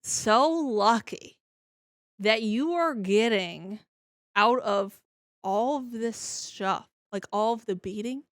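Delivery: drawn-out, mildly exasperated disbelief; incredulous question. Retold or imitated. Reader questioning the character's luck, mildly incredulous and slow. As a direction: stretch the words in mock disbelief. Acting out her disbelief while reading.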